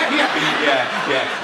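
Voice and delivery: jolly fat person. Acted. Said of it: "They're jolly".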